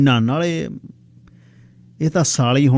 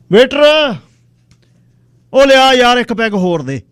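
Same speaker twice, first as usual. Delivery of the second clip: shouting for waiter; 12 semitones higher, 7 dB louder than usual. Acted. He shouts for another drink.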